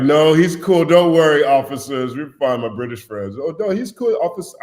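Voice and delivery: put-on a poor British accent drifting Caribbean; bad British accent. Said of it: "all my accents sound like a Caribbean accent".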